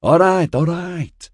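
high, loud, irritated brush-off; irritable. A narrator's reading. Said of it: "Sarah said irritably".

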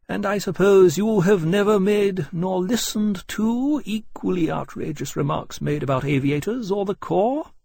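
high, loud, bitter challenge; open bitterness. A narrator's reading. Captain resenting slights on aviators, openly bitter. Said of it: "open bitterness in Portland's voice".

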